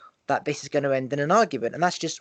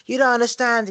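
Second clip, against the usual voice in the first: higher, louder exasperated shout; frustrated yell; 8 semitones higher, 5 dB louder than usual. Retold or imitated. Teen shouting back at arguing parents, frustrated. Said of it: "I go".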